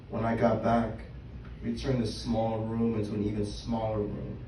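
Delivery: measured poem reading with pauses between phrases; spoken-word poem. Acted. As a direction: read your own poem to a live room, line by line. Reads own poem aloud.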